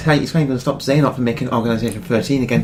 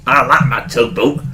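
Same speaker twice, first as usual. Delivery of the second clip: dopey Pete voice; 4 dB louder, slower than usual. Pretend. Imitating Pete playing the fool.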